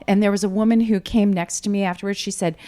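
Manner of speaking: ordinary talk, nothing marked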